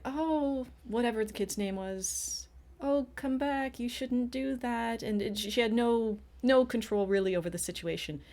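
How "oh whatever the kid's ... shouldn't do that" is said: higher, whiny mock-mother voice; mocking a helpless mom. Mother weakly calling her son back, mocked higher. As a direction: imitate a feeble, pleading parent. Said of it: "she was one of those parents who was just like".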